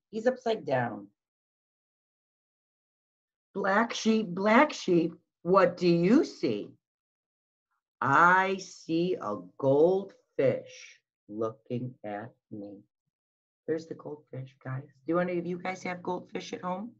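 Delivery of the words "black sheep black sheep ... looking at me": put-on sing-song storytime voice for little kids; picture book read-aloud. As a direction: read it like circle time, lilting and slow. Reading picture book aloud to children.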